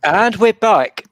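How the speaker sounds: high, slow announcer call; show host announcement. Acted. Host returning from break.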